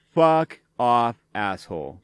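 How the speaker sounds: a loud, cutting fuck off; angry retort. Real, not acted. Reacting to a smug online comment, a loud angry dismissal. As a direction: snap it at the screen like a personal insult.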